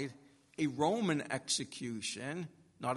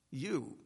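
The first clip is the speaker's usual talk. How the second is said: "You" set apart as its own emphatic word; 4 dB quieter than usual. Acted. Pilate looking at Jesus, an emphatic lone "You". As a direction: land pointedly on the single word "You". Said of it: "It's in the emphatic".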